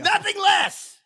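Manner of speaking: high, loud, theatrical Shakespearean declaiming; Kenneth Branagh impression. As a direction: boom it out like a stage Henry V. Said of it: "let's do Kenneth Branagh".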